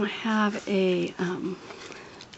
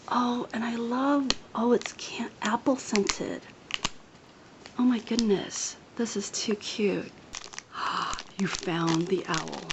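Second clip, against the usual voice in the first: excited, half-whispered gushing; hushed whispering; 3 semitones higher than usual. Real, not acted. Thanking a friend for gifts while others nap, hushed whispering.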